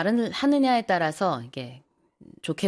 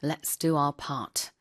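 slow model sentence; 4 semitones lower, 4 dB quieter, much slower than usual. Shown as a demonstration. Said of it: "repeating the phrase".

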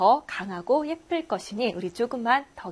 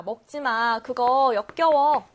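louder, drawn-out mock disgust at the end; mother's scolding; 4 dB louder, slower than usual. Mother warns child about garbage, mock disgusted scolding. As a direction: act out a mother's slow warning. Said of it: "엄마가 이야기를 합니다".

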